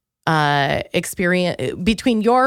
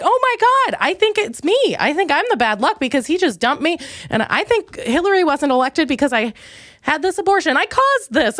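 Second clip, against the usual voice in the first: retold panic; 7 semitones higher than usual. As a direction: replay the moment she blamed herself, high and frantic. Retold panic after election.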